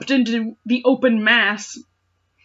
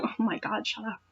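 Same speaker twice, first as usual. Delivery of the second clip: usual speaking voice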